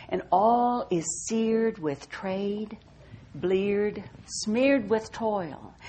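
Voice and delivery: slow, measured reading of a poem. Acted. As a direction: let each line land, savoring the sound. Reads a Hopkins poem aloud.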